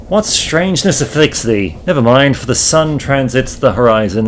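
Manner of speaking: a lightly voiced old-fashioned gentleman; archaic landlord. Landlord demands the lodger sign paperwork, lightly formal. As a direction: speak in stiff thee-and-thou formality. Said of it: "When did you start talking like this?".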